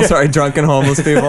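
put-on "drunk" and "homeless" each stressed apart; separate stress. Shown as a demonstration. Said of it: "those were separate".

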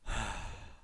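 long breathy sigh. Real, not acted. Pausing after talk of the new year, sighing. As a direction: let out a long exhale.

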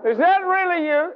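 slow, high-pitched cry of doubt; acted challenge to an unseen voice; challenging shout. Man challenging the voice, retold.

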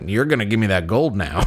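mock cowboy threat; threatening. Arthur robbing the gold panner, mock threat. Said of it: "I pressed the threaten button".

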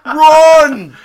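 high, loud hammed-up cartoon voices; cartoon villain voice. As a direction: ham up the cartoon scene, yelling. Acting out Simpsons scene.

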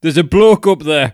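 loud, high comic holler; blunt mock translation. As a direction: blurt it out loudly for a laugh. Mock blunt translation of poetic French.

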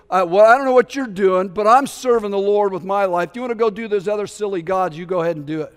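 in-your-face challenge. Retold or imitated. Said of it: "stepped right in their face and goes".

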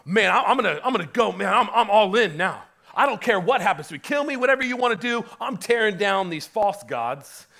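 loud, fast, fired-up declaration; zealous Gideon. Retold or imitated. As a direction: shout it like a man who is all in. Preacher voices Gideon's zeal.

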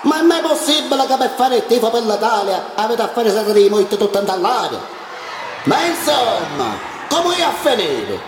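angry shout. Acted. Angry spectator voiced in poem.

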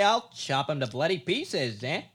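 put-on old-timey tough guy. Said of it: "and say".

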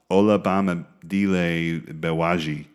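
Olabamidele Bewaji sounded out slowly, syllable by syllable; careful name attempt. Shown as a demonstration. Host reading a long name to his co-host, careful and slow. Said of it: "that's as best as I could do".

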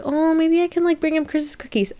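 daydreaming thought. Retold or imitated. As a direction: float the silly idea.

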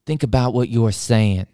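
slow, pushy hazy voice; slow stoner pitch. Retold or imitated. Stranger bargaining with school worker, slow pushy drawl. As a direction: talk him into it, slowly. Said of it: "And he goes".

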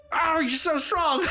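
high, slow swooning voice; mock flirty swoon. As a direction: sigh it out like a smitten fan. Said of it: "he's like".

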